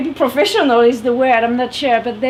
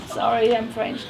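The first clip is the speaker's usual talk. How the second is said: softer, sheepish sorry I'm French; mock-apologetic confession; 5 dB quieter than usual. Shown as a demonstration. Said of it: "I say that like".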